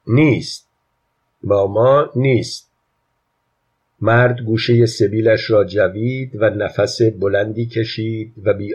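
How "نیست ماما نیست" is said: «نیست» said firmly with a falling tune; emphatic child. A narrator's reading. Child insists to passengers that mummy is gone, «نیست» stressed. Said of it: "بچه با تأکید گفت".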